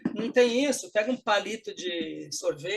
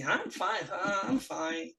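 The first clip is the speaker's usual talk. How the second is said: soft, drawn-out, unconvincing "I'm fine"; not really fine; 4 dB quieter, much slower than usual. Shown as a demonstration. Teacher shows tone revealing true feeling, soft unconvinced reply. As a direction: say you're fine while letting the opposite show. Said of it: "o seu tom de voz mostra o que você tá sentindo".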